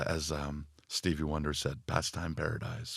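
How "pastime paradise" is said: put-on American accent. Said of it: "Don't know why I said that in an American accent".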